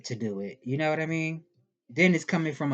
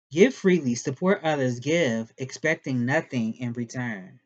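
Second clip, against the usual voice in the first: louder corrected reading; 4 dB louder than usual. Shown as a demonstration. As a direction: read it out loud and firm.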